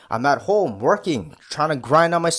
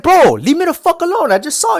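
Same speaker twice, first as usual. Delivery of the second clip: higher, louder fed-up outburst; exasperated mock yell; 14 semitones higher, 6 dB louder than usual. Vlogger mocking a clingy partner's texts, fed-up yell. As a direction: blurt it like you're sick of them. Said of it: "It's like".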